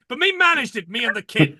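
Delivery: put-on New York accent. Continuing trucker voice.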